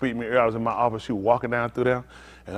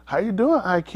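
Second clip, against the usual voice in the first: put-on child role demo; 4 semitones higher, slower than usual. Shown as a demonstration. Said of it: "So you gonna say".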